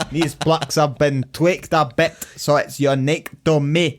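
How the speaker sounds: laughing through a mocking quote. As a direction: snicker while quoting pompously.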